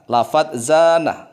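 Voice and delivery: "zana" with every sound drawn out slowly. Shown as a demonstration. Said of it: "Kita kasih contoh terlebih dahulu lafadz zana".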